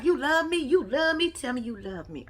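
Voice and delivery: mock lovey pleading, dropping to soft; retold lovey tone change. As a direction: act out her turning soft and needy. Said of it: "why that tone change".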